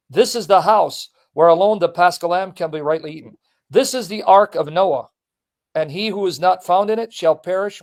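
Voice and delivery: declaimed letter, each clause set apart; formal reading aloud. Acted. Host reading a saint's letter to the pope, solemn formal reading. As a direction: read it out with weight on key phrases.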